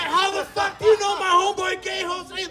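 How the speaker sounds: high, loud disbelieving yell; shocked outburst. Retold or imitated. Storyteller shouting in disbelief at the passengers. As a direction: blurt it out in total shock. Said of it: "I'm like".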